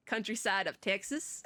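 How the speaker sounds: playful Texan twang; Texan accent. Acted. Streamer reading out a Texas location, playful Texan accent. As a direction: read it with a put-on Texas accent.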